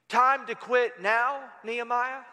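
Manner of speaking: slow question rising at the end. Retold or imitated. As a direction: ask it slowly, with a rise. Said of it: "And he would say".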